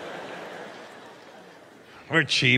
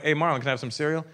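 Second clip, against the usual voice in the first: put-on kid asking friend; 4 semitones lower, faster than usual. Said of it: "did an impression of him".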